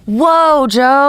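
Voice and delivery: high, drawn out whoa; playfully scandalized; mock shock. Real, not acted. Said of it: "mock outrage".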